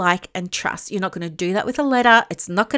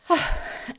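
heavy out-of-breath sigh; breathless sigh; 8 semitones higher, 3 dB quieter than usual. Real, not acted. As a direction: sigh out, short of air. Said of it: "sorry, I'm out of breath".

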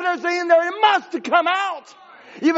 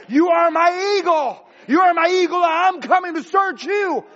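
God speaking; 2 semitones higher than usual. Acted. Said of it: "The Word of God has said".

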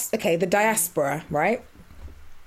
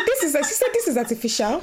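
higher, laughing retelling; light imitation of an Igbo auntie; imitating auntie; 5 semitones higher than usual. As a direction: mimic the auntie's accent.

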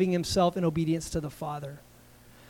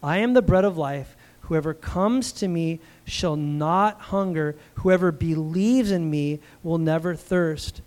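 slow, deliberate scripture reading; slowly; 2 semitones lower, slower than usual. Shown as a demonstration. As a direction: read it slowly, word by word. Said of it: "let me read this again slowly".

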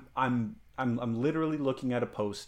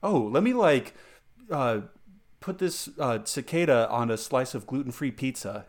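lightly imitated hipster, raised opening; mocked trendy hipster; 4 dB louder than usual. Mocking hipsters dreaming up a dish, lightly hammed-up trendy voice. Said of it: "you're just like".

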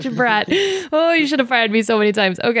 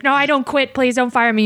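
higher, mock pleading; pleading employee; 6 semitones higher than usual. Employee begging boss not to fire her, mildly pleading. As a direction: beg not to be fired in a lightly raised voice. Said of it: "Then I'm like".

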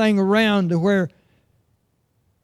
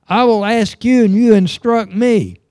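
God speaking from the storm; 5 dB louder than usual. Acted. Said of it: "answered Job out of the storm and said".

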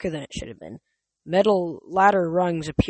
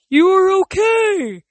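Tyson voice; 13 semitones higher, 8 dB louder, slower than usual. Acted. Tyson relieved, big voice.

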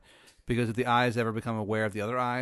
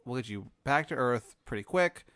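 calm the abducted human, a bit louder; alien Tony; 3 semitones higher, 4 dB louder than usual. Acted. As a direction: alien doctor reassuring the human patient. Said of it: "he's like".

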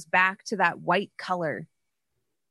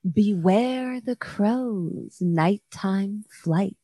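slow, eerie spirit voice on the wind; tinkly bell voice; thin silvery voice; slower than usual. Acted. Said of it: "you hear a thin, silvery voice on the wind".

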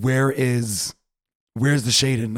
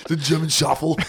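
announcer voice; 4 semitones higher than usual. Pretend. Announcing segment title.

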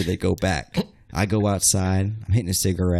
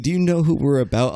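imitating a challenge in raised pitch; retold threat; 5 semitones higher than usual. Sister choking him outside the bar, challenging. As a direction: throw down a mock threat, higher-pitched.

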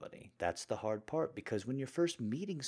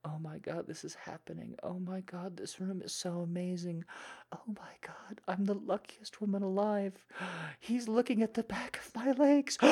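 swooning date fantasy; 6 semitones higher than usual. Pretend. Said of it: "that's not part of this role play".

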